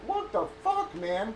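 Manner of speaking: shocked, offended retort thrown back at him; indignant outburst. Retold or imitated. Retold reaction to being slammed.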